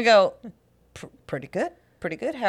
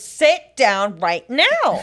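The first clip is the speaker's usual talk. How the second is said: mock demanding, insistent tone. Retelling a woman ordering the speaker to sit, imitating her demanding. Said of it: "She's foaming at the mouth".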